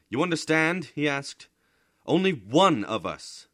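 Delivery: loud, high emphasis; emphatic. A narrator's reading. Bodini telling the family only one may go, loud. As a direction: drive home that only one can go.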